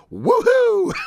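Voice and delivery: high squealing woohoo; joyful scream. Retold or imitated. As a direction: squeal it out with joy. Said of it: "jump for joy and scream".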